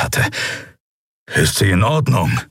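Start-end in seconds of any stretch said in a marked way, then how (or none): 1.3-2.4 grumbled. A narrator's reading. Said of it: "brummte er".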